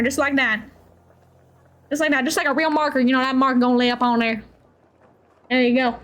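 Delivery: lightly voiced Southern country accent; easy Southern accent, mildly put on. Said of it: "some more Southern accent".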